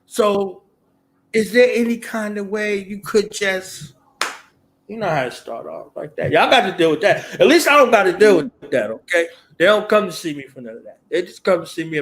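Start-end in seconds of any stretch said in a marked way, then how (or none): 0.1-6.3 imitating a follower. Mimicking someone seeking help.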